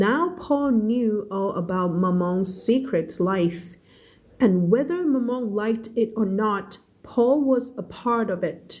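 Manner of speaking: very slow, clear story reading; slow read-aloud. Shown as a demonstration. Teacher reading a novel aloud to her class, very slow. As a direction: read each word out slowly for learners.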